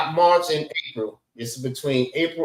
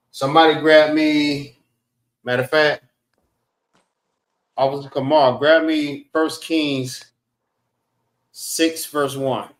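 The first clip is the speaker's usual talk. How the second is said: calling out; 5 dB louder than usual. Real, not acted. Calling out to class members.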